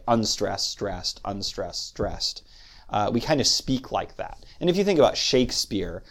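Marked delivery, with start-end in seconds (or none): 0.1-2.4 "unstressed, stressed" in measured pairs, softening as it goes; iambic rhythm. Shown as a demonstration. Lecturer putting the iambic pattern into English terms, iambic rhythm. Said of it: "in English we would say".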